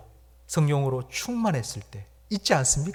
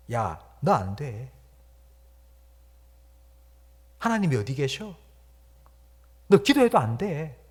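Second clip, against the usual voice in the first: voice of the flesh; 2 semitones higher than usual. Acted. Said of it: "육체의 소리는 이렇게 말합니다".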